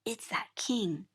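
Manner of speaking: a touch of regal hush; slow hushed king. Shown as a demonstration. Teacher introducing the king letter, slow and soft.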